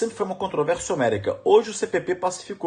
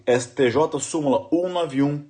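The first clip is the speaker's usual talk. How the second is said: slow dictation. Shown as a demonstration.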